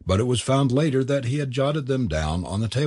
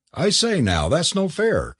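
higher-pitched mild protest; crying out; 7 semitones higher than usual. A narrator's reading. Forbes objecting to his friend's plan, crying out. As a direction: object aloud, pitch lifted. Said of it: "cried Forbes".

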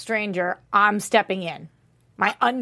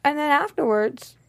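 high-pitched mocking imitation, climbing higher; Amenadiel; 8 semitones higher than usual. Host imitating a grown man inviting a boy out, high mock voice. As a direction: mimic him in a high put-on voice. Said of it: "Menadiel's like".

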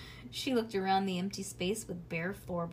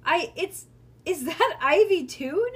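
high, loud incredulous asking; startled question; 8 semitones higher, 9 dB louder than usual. A narrator's reading. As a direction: call up in surprise. Sitter startled by second child.

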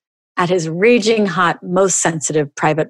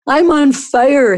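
high, slow, drawn-out wail; storyteller's light wail of pain; mock wail; 8 semitones higher, 3 dB louder, slower than usual. A narrator's reading. Husband burned by pepper oil, mock wail. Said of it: "he wailed".

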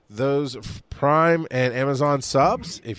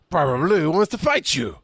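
badly faked Italian accent, pitched up; mock Italian accent; 5 semitones higher than usual. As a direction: put on a hammy, not-quite-Italian accent. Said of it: "I don't know why I'm doing that accent".

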